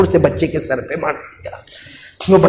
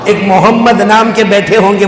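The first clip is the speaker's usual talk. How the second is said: proclaimed; 4 dB louder than usual. Acted. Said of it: "बोलो उससे".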